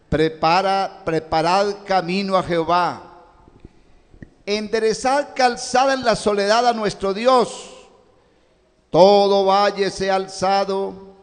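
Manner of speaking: prophetic verse read out with force; scripture proclamation. Real, not acted. Preacher reading Isaiah's prophecy to congregation, forceful proclamation. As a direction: proclaim it like a voice crying out, sustained.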